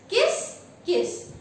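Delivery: high squeak on the first kiss, then plain; mock crow chirping kiss kiss; squeaky crow voice. Teacher imitating the crow Caesar greeting Aunt Mabel, high squeak.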